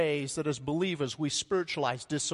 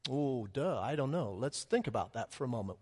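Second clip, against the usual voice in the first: sarcastic aside; 4 semitones lower, 6 dB quieter than usual. Acted. Sarcasm at disciples.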